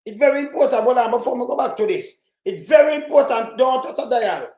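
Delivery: loud, high radio-host warning; mock announcer hype. Hyping his viewers before playing the Doctor Daz clip, loud announcer. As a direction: pump it up like a DJ before the drop.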